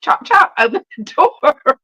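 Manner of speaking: high, imperious cat orders; bossy cat. Acted. Cat at the door commands owner, bossy and high. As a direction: order your human about, playfully. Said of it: "look at me like".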